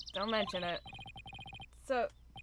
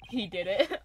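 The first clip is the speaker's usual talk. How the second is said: usual speaking voice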